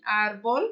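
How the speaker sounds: "árbol" stressed on "ár"; stressed first syllable. Shown as a demonstration. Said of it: "aqui a minha sílaba forte aqui".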